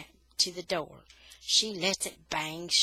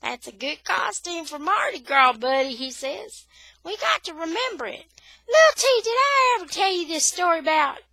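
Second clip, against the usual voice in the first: lightly voiced, chuckling old man; amused grandpa; 9 semitones higher, 7 dB louder than usual. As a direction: breeze through it to break the tension. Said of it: "and laughs".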